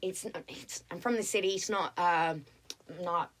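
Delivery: casual Australian, a bit giggly; Australian accent. Pretend. Waitress telling diners she's from Sydney, Australian accent. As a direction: play the Sydney girl. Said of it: "Australian accent".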